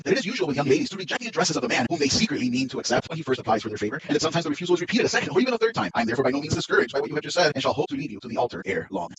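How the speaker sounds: lightly pompous, self-assured suitor; a hint of a smug clergyman lecturing; playing the fool Collins. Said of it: "I'll play the fool here".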